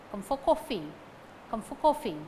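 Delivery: "for" unstressed before "coffee"; weak "for". Shown as a demonstration. Teacher showing weak prepositions, "for" unstressed. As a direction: pass lightly over "for". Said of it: "And prepositions".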